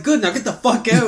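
high, loud kick-out; mock dismissal. Sending a visiting friend away from work, mock-stern.

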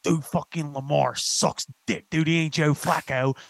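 slow, lightly voiced Baltimore sports fan; mock Baltimore fan voice. Friend imitating a comedian's Baltimore fan character. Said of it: "he's Ronnie from Baltimore".

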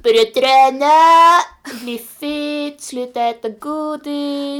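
high, drawn-out mock enthusiasm; mock pep talk. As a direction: chant the fitness clichés in a silly put-on voice. Skojar med klyschiga nyårslöften. (tillgjort hurtig, utdragen skämtröst)

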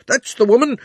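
high shouted accusation; crying out. A narrator's reading. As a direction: yell it out, pointing. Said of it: "cried the fat man".

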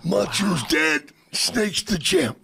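dramatic wrestler promo; Macho Man. Retold or imitated. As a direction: pronounce the outcome like a showboating wrestler. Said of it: "That's a great Macho Man impression".

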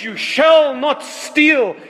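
slow stern commandment; voice of the law. Retold or imitated. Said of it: "that voice of the law that says".

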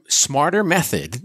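slipping into a Boston accent on smarter. Real, not acted. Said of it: "There's my Boston accent".

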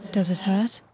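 hushed, voiceless tender question; whispered. Acted. Lover whispering to ask if it still hurts, hushed. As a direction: whisper it close, checking on him.

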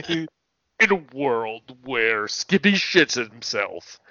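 slow, grand movie trailer announcer; mock trailer voice. Teasing Skippy with a slow mock movie trailer line. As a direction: roll it out like an epic trailer.

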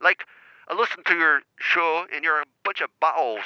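prank caller's shaky Cockney attempt; attempted Cockney accent. Caller posing as Sean from Milton Keynes, attempted Cockney accent. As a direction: pose as a Cockney caller, not very convincingly. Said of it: "I was doing a Cockney accent".

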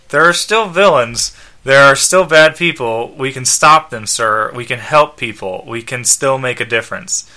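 lightly voiced earnest robot; mildly reproachful robot companion; Skeets. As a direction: plead with the boss as a loyal robot. Robot pleads with his owner.

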